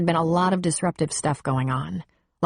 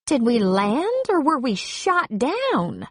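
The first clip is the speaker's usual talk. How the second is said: sarcastic passenger; 8 semitones higher, slower than usual. Acted.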